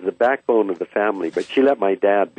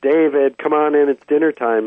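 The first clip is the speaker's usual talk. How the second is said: higher, mild calling-out of a mom; imitated yelling mom; 5 semitones higher than usual. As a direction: mildly mimic moms calling kids in for dinner. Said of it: "moms would start yelling".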